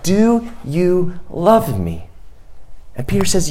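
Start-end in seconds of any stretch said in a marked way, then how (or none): 0.0-2.1 tender question. A narrator's reading. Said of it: "Jesus says again".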